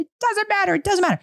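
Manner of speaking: high, mock sulky girl; a hint of a sulking eleven-year-old; daughter's sulky reply. Daughter shrugging off mom, lightly sulky. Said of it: "she said".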